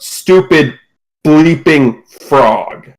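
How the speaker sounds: mild mock yell, drawn out slowly; slow, punched insult with restrained volume; angry yell. Game master voicing the sulking captor's outburst, mildly angry. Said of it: "he just sort of yells out".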